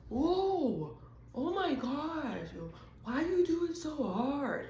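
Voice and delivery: put-on high, slow, shocked kid voices; startled friends. Pushed friend cries out at her strength, high and shocked. Friends react to hard push.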